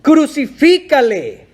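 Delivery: loud, high, slow shouted demand; crowd shout. Retold or imitated. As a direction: bellow it like an angry mob. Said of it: "ellos volvieron a dar voces". (grito de la multitud, alto y lento)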